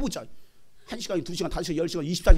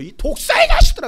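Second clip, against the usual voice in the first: loud, heated rebuke; scolding curse; 10 dB louder than usual. Retold or imitated. Preacher quoting Jesus cursing the vipers, scolding shout. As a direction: hurl it as an insult. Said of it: "마귀에게 욕하라고".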